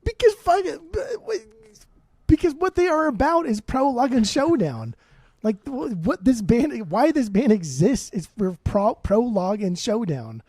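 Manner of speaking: exasperated fan defending his pick; heated excitement. Real, not acted. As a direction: argue it hard, voice climbing. Heated argument about favorite songs.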